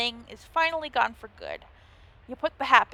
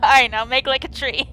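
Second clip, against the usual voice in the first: loud, solemn archaic dismissal; hammed-up medieval pun delivered loud; mock Old English; 8 dB louder than usual. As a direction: bark the "Aye" like a stern woodcutter. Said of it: "very few jokes in that segment".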